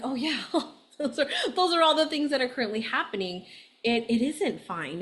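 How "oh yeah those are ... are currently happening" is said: higher, faster, giggling rush; laughing admission. Retold or imitated. Recalling her own realization, laughing and rushing. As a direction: laugh as it all spills out. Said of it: "I was like".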